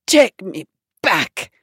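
slow, understated grand-dame demand. Retold or imitated. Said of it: "She goes".

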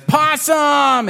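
high-pitched exuberant cry; high, drawn-out acted cheer; excited kitten. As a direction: squeal it out as a thrilled kitten. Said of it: "Pancake is so excited".

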